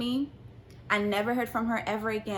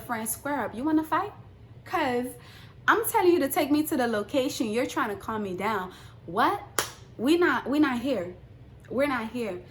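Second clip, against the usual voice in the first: mock angry rant; 3 semitones higher than usual. Telling her friend to drive her back, a heated rant. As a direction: rant at your friend, worked up.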